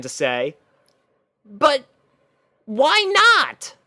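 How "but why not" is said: high, disbelieving question; can't believe what she heard; dismayed. Acted. Rainbow Dash asks Twilight why not, dismayed. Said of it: "disbelief and dismay".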